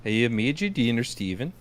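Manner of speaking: high, loud mock sweet voice; sing-song innocence over the broken door; hammed-up girlfriend voice; imitating Melina. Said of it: "It's more like".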